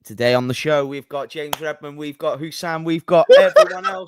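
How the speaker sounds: mock host reading out the guest list; lightly hammed-up show intro; Callum. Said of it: "you impersonate Callum starting a stream".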